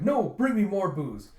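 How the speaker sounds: loud, high pirate holler; rowdy pirate demand. Retold or imitated. Pirate refuses sleep and calls for drink, rowdy demand.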